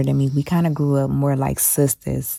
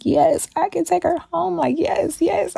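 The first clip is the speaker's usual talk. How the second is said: put-on far higher, eager little-girl squeal; eager child's yes. The young girl answering the teacher, eager and much higher. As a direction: beg like a thrilled kid getting her wish. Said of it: "And I'm just like".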